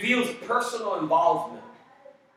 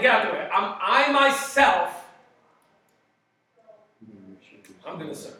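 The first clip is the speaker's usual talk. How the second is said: voice of God; 4 semitones higher, 7 dB louder than usual. Acted. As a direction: announce God stepping in. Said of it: "God is saying".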